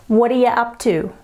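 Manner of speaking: quick, whispered "What are you up to?" with schwas; fast Aussie phrase. Shown as a demonstration. Teacher giving learners a quick Aussie phrase. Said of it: "I'm going to teach you".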